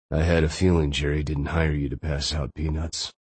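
faint, tired, wounded man's voice; weak voice. Acted. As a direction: speak weakly, barely holding on. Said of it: "With a weak voice".

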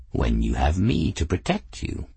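low, lofty cat voice; proud cat. Acted. Cat answering grateful Bridget, low and lofty. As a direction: speak as a cat who knows he's perfect.

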